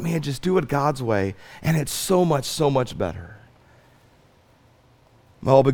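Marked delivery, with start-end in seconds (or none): 0.0-3.4 soft plea. Acted.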